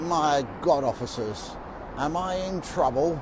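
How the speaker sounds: put-on slow, very plummy upper-crust Eton accent. Retelling a dismayed man asking officers about his situation, in the plummiest Etonian accent. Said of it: "in the plummiest Etonian accent ever".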